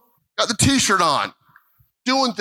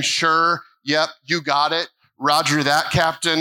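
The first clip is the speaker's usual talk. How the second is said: casual, offhand agreement; tossing off an easy yes; breezy fake yes. Preacher mocking a congregation's casual yes to God, offhand. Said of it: "and you're just saying".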